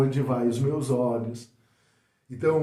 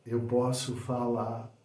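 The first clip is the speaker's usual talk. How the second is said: quiet, slow, measured version; soft delivery; 3 semitones lower, 7 dB quieter than usual. Shown as a demonstration. Coach showing another way of saying a phrase, softly. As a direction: bring it right down, unhurried. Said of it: "dependendo de como você fala".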